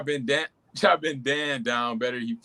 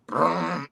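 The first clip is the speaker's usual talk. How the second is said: truck rattle noise; 2 semitones higher than usual. Retold or imitated. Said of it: "neon truck will be rattling".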